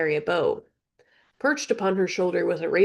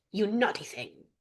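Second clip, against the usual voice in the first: softer parrot voice; parrot scold; 2 semitones higher, 6 dB quieter than usual. Acted. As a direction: tease like a parrot.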